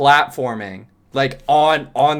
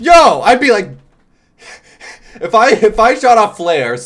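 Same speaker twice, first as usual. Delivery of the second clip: excited laughing; 8 semitones higher, 7 dB louder than usual. Real, not acted. Excited laughing setup of scenario.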